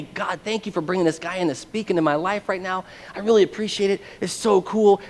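grateful gushing. Retold or imitated. New believer thanks God for the stranger, gushing.

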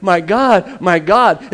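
loud, insistent cry to God; urgent cry, mildly acted. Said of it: "he cried out in a loud voice".

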